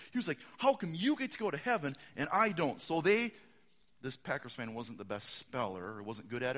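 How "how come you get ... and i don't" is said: mock-indignant complaint, slightly raised; a touch of anger, lightly acted; mildly mad. Packers fan to Seahawks fan, mildly mad complaint. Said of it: "He was mad".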